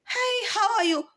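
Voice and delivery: put-on very high girlish Chinese woman's greeting; womanized Chinese voice. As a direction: chirp it like a sweet rich lady. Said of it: "Very womanized Chinese".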